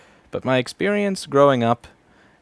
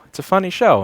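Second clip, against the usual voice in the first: higher, louder mock grandpa; grandpa reply; 9 semitones higher, 8 dB louder than usual. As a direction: play the grandpa defending his show. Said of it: "And he'd go".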